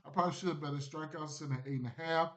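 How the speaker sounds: talking through hiccups; hiccupping mid-sentence. Real, not acted. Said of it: "I got the hiccups now".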